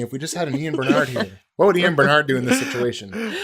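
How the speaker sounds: hammed-up frustrated outburst; mock exasperation. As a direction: play a designer cursing in mock despair. Acting frustrated designers in skit.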